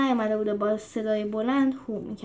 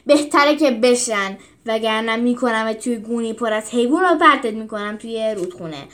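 angry threat; 4 dB louder than usual. Acted. Hadrian threatening the teacher, angrily. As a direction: cut him off with a threat. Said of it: "با عصبانیت قطع کرد".

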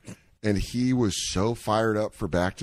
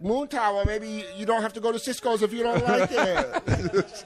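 passive aggressive chef; 11 semitones higher than usual. Retold or imitated. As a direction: needle him sweetly in a high voice. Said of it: "Passive aggressive".

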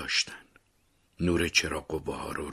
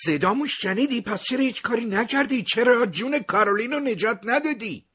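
high, louder anguished shout; 5 dB louder than usual. A narrator's reading. Son accusing his dying father, anguished shout. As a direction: yell the accusation at him. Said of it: "داد زدم".

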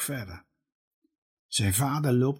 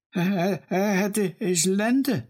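put-on stumbling, higher boy's voice, breaking on each start; stammering; 7 semitones higher than usual. A narrator's reading. Noah stammers to grandpa, shocked that the forest must go. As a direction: stutter out the words in shock. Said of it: "hakkelt hij".

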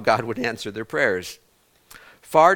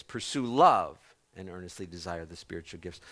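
softer reread; 6 semitones lower, 6 dB quieter than usual. Shown as a demonstration. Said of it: "First Corinthians fourteen one".

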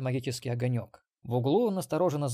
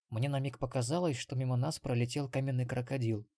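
weak creak. Acted. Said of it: "слабо проскрипел Ксенобайт".

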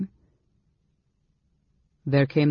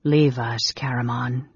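ordering; 2 semitones lower than usual. Acted. Mage dismissing his brother, ordering. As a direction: dismiss him with understated authority. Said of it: "Raistlin ordered".

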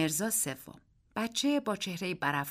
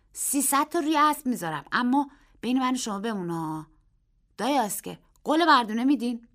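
put-on a boy's raised voice, earnest and a little louder; the boy making his bet in dead earnest; serious boy; 5 semitones higher, 7 dB louder than usual. A narrator's reading. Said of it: "پسر خیلی جدی گفت".

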